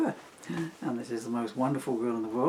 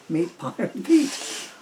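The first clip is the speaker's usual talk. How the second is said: mock strain; 10 semitones higher, 4 dB louder, much slower than usual. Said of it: "Or I will asphyxiate".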